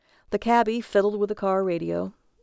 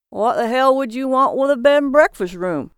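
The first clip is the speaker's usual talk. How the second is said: loud, raised-pitch disbelief; shocked voice; 5 semitones higher, 8 dB louder than usual. A narrator's reading. Old local answering a stranger's request for lodging, shocked. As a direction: blurt it out, scandalised and louder. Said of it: "said in a shocked voice".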